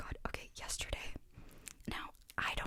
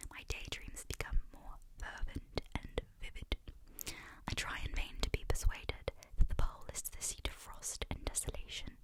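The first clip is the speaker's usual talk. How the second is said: whispered book reading. Acted. ASMR reader reading Frankenstein's first letter in a whisper. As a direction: read the letter aloud gently, whispering.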